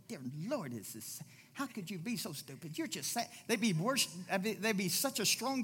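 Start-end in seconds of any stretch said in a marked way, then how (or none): 0.1-3.3 softer, low dismayed prayer; dismayed sigh. Retold or imitated. Reader of Kings groaning to God, softly dismayed. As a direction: murmur it, shaking your head at the kings. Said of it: "you go".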